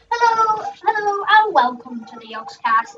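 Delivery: lightly hammed-up YouTuber greeting; mock show opener, starting high and dropping; YouTuber intro. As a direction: imitate a YouTube host's hello. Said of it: "trying to impersonate those four YouTubers".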